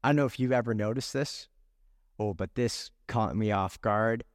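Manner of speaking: low, subdued and choked-up; holding back emotion. Real, not acted. Preacher confessing to congregation what caught him off guard, holding back emotion. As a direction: keep it together while sharing something that hit hard. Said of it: "gonna try to keep it together".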